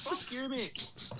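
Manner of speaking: slow, high, laughing swear; laughing mock curse. Real, not acted. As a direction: drag it out through a laugh. Mock insult to Greggs beggar.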